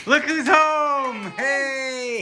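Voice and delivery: high, slow happy greeting; welcoming someone home. Real, not acted. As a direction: greet them warmly at the door. Greeting wife arriving home.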